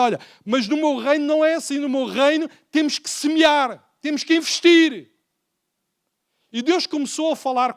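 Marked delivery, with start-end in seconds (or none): 0.0-5.1 voice of God. Retold or imitated. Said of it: "e Deus diz agora".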